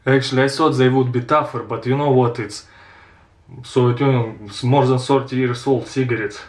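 cigarette at the lips; speaking behind hand; smoking while talking. Real, not acted. Seen 1: Cigarette held at lips, hand covering mouth while talking.

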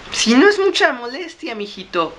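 high, loud granny voice; put-on granny, dropping at the end; little old lady. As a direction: accept sweetly in an old lady falsetto. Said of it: "Me ofrecí a ayudarle a la viejecita".

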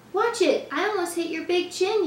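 storybook yell, not full volume; mild yell. A narrator's reading. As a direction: call it out, lightly acted for children. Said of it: "yelled the duck".

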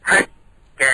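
ฮัก แก in two separate syllables, ending in a long แ vowel; native Hakka pronunciation. Shown as a demonstration. Showing how Hakka people name themselves, careful pronunciation. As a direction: say ฮัก, pause, then a drawn แก. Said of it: "เขาจะออกเสียงว่า".

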